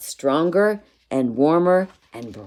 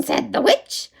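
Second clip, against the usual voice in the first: put-on lively reading to children; story narration. A narrator's reading. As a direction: read it like a bedtime story. Reads a picture book aloud.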